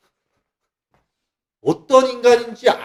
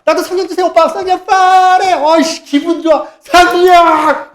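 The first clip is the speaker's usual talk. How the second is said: much higher, louder wild cheering; ecstatic crowd; 11 semitones higher, 8 dB louder than usual. Retold or imitated. The crowd begs for the Spirit, high loud cheering. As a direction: scream it like a thrilled crowd. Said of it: "그러면 모두 다".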